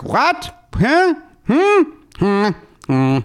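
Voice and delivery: high, baffled grunts of a lost viewer; puzzled moviegoer missing the dialogue; confused viewer. Retold or imitated. Mocking confused drive-in viewer.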